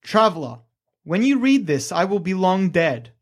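ominous inscription voice; creepy caretaker. Acted. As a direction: warn them off like a ghostly keeper. GM reads inscription voice.

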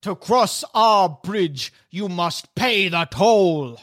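slow, lightly voiced giant toll demand; a hint of a stern bridge troll. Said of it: "The face with the red face paint turns".

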